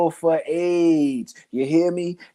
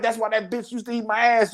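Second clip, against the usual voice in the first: higher-pitched mock argument retort; arguing baby father; 4 semitones higher, faster than usual. Man arguing with his partner, mock blurted retort. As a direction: imitate a man throwing it out mid-argument. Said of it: "I'm arguing with this nigga".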